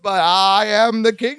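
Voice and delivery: mock a boastful leader insisting; hammed-up self-important declaration; Donald Trump. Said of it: "he sounded like Donald Trump".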